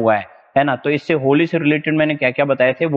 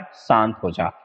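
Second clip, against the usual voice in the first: soothing; 3 semitones lower, 3 dB quieter, slower than usual. Shown as a demonstration. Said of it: "teacher repeats memory trick".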